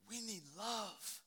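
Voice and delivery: slow, drawn-out plea on love; preaching plea. Retold or imitated. Retelling a stepmother's funeral plea, slow preaching. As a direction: stretch the words out like a preacher. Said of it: "She started singing while she was preaching".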